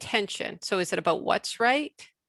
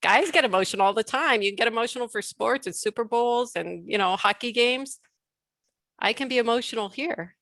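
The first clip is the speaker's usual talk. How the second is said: raised, insistent declaration; emphatic claim; 3 semitones higher than usual. Retold or imitated. Speaker voicing her own permission to feel, raised and insistent. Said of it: "permission to say".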